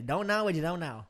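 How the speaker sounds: lightly imitated South Louisiana accent; Chris Rude. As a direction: repeat his saying with a touch of South Louisiana. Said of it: "He's from South Louisiana".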